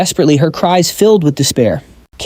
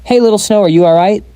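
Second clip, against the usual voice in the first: a high, anxious call of her name; mild worried concern; 5 semitones higher than usual. A narrator's reading. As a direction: check on her, a little alarmed. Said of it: "a worried Yang Shi asked".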